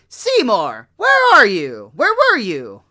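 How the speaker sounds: loud, high shrill call; screaming mother. Retold or imitated. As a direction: yell for your son. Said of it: "Agnes is screaming".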